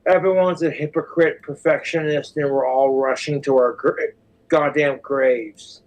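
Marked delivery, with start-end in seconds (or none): 3.7-5.8 "graves" broken by a hiccup, slow. Real, not acted. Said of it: "Right in the middle of saying graves".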